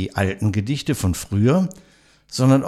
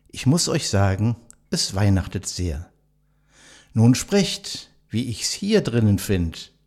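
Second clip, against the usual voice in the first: poem recital. Acted. Host reciting a poem to nursing home residents, measured recital. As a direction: recite it like a classic holiday poem for listeners.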